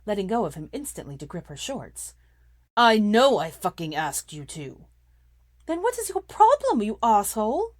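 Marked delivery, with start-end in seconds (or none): 2.8-4.9 angry shout. A narrator's reading. Draco shouting in quarrel. 5.7-7.8 furious shout. A narrator's reading. Hermione shouting back.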